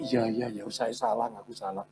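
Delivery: low, trailing-off apology; meek admission. Retold or imitated. Driver admits fault to the zookeeper, meekly. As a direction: give in meekly, voice dropping away.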